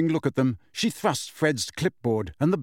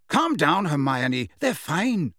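higher-pitched, easy reassurance; lightly acted reassurance; reassuring; 4 semitones higher, slower than usual. A narrator's reading. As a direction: soothe someone who is fussing. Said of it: "said Lee reassuringly".

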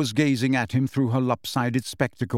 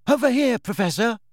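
much higher, loud call; 10 semitones higher, 3 dB louder than usual. A narrator's reading. Neville calling the professor into the dormitory, loud. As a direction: shout to bring her over.

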